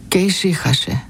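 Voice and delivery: ordinary delivery, nothing marked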